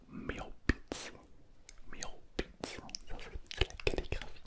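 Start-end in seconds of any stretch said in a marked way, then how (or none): 0.1-2.8 miaopitz whispered slowly, Chinese sounds; miaopitz, Chinese pronunciation; Chinese word. Shown as a demonstration. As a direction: say miaopitz carefully. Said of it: "ça se dit".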